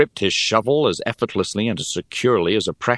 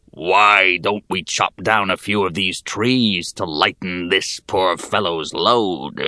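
slow goblin voice; slower deeper goblin; slower than usual. Acted. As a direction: drag it out like a sly goblin. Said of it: "slower and deeper than the other".

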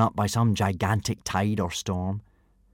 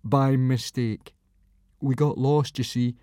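put-on higher, timid boy explaining; nervous boy voice; 5 semitones higher than usual. A narrator's reading. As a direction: explain it nervously, like a scared kid.

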